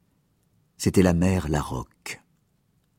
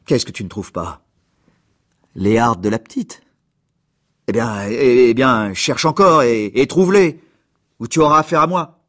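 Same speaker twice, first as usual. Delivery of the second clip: from a thick tearful question building to a loud, higher threat; tearful then threatening; 4 semitones higher, 6 dB louder than usual. Acted. Mayor ordering the servant to keep searching, tearful building to furious. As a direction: swell from choked tears into a loud menacing order. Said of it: "d'une voix grasse, noyée dans les larmes".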